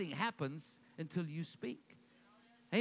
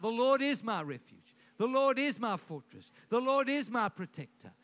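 louder, stress on "Lord" each time; bold proclaiming; 5 dB louder than usual. Shown as a demonstration. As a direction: declare it firmly. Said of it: "He went around speaking it out".

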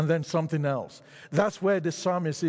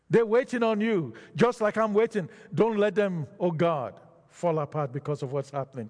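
preacher voicing an urgent prayer; psalmist crying out. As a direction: plead with God, pitch raised. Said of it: "He's crying out and he's saying".

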